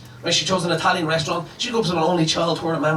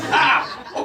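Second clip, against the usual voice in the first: higher-pitched acted "ah" of pain; mock pained yelp; 8 semitones higher than usual. Boyfriend stabbed with a fork by his date, mock pained yelp. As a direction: yelp as if jabbed, lightly.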